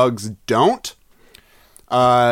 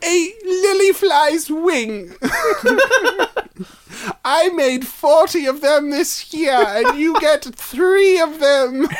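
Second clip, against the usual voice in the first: creepy whispery spider; 13 semitones higher, slower than usual. Pretend. Plays a spider giving gifts.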